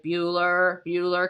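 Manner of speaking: lightly voiced bored teacher calling roll; a hint of a deadpan teacher; droning roll call. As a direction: drone the name like a dull attendance check. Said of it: "like, a monotone, you know, like".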